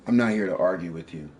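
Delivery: forceful. Real, not acted. Argument, trying to calm down.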